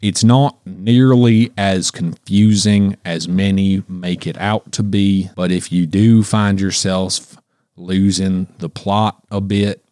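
put-on slow, low East Tennessee accent. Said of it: "Let me hear your best East Tennessee accent".

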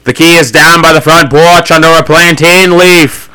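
drawn-out acted wifely voice; lightly hammed-up gentle wife; gently and slowly. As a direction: repeat it patiently, stretching the words. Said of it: "very gently and slowly".

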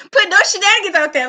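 high, loud laughter over the words; giggling scold; laughing. Real, not acted. Laughing mid-rant.

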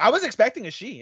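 fast, high and excited. Shown as a demonstration. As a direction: blurt it out eagerly. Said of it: "In all sincerity".

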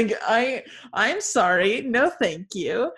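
giggling so hard the words wobble; laughing refusal. Real, not acted. Refusing Lori while breaking up laughing.

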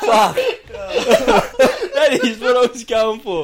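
high, loud, choked with laughter; laughing hard. Real, not acted. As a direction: squeeze the words out through laughter. Cracking up at the impression.

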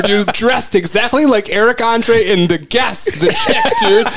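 laughing. Real, not acted. Laughing while telling the bit.

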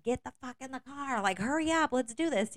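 high, loud mock scream hurrying kids; imitated parent scream. Parents to kids at the car, loud mock scream. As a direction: bark it like an impatient parent. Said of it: "screamed like how my parents screamed".

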